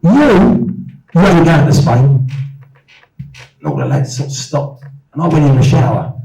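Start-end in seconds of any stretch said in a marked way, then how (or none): 0.0-2.3 fuming. Retold or imitated. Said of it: "I'm fuming".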